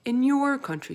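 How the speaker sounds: big gentle giant voice, loud; BFG voice. A narrator's reading. Narrator voices the giant to Sophie. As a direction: voice the giant with wonder. BFG voice in read-aloud story.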